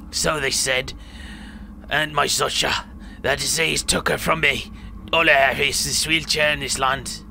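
put-on old villager's outburst settling into lament; acted aggrieved old man, subsiding; bitter old man. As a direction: burst out, then recount losses in a put-on accent.

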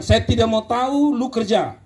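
teguran tegas bernada tinggi; perintah tegas. Retold or imitated. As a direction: desak anak didik dengan nada lebih tinggi. Retold stern order to student. (menuntut tanpa kompromi)

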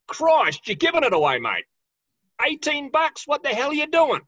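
high, loud, teasing protest at a friend; mock outrage. Real, not acted. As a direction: pretend to be scandalised by the bargain price. Mock outrage at the low price.

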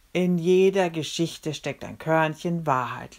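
slow, rote singsong recital; bored reciting of a proverb; droning recital. Acted. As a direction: reel off a worn-out saying. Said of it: "leierte ich den Spruch herunter".

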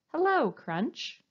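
a medium voice, slow and kind; bold yet gentle. Shown as a demonstration. Teacher showing the right hello, bold yet gentle. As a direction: greet him gently but clearly. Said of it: "in a nice, medium-sounding voice. Bold, yet gentle".

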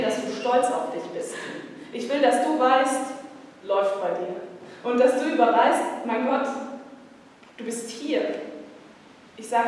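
rhythmic, building slam poem delivery with long pauses; poetry slam recital. Acted. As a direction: lift them up line by line, like a pep talk. (Poetry-Slam-Vortrag, rhythmisch und aufbauend)

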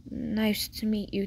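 a hint of a man's character voice; lightly voiced male neighbour. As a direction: return the greeting slowly and evenly. Male neighbour returns the greeting.

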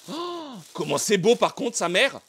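loud, high delighted cry; excited shouting. Real, not acted. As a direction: gush over the statue loudly. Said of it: "je vais faire du bruit deux secondes".

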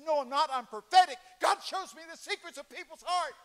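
high, loud prophetic declaration; loud proclamation. Retold or imitated. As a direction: announce it like a prophet. Retold reply to attendant.

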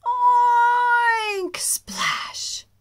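very high, very loud oink; a big happy pig squeal. Acted. Pig jumping into mud, loud high oink.

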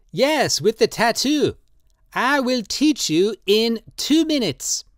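put-on high, slow, pleading old man's voice; old tattooist Drioli, drunk and pleading. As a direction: coax him tenderly, in wine. Drioli insists.

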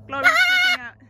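high, loud shout of alarm; sudden high yell. Real, not acted. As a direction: call out that the bird is panicking. Alarmed as bird panics.

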